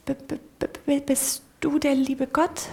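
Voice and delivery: a timid mouse stammering, lightly squeaked; squeaky little voice. Acted. The mouse timidly asks God, stuttering in a squeaky voice. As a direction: stutter it out, small and scared. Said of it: "fragt mit ganz piepsiger Stimme".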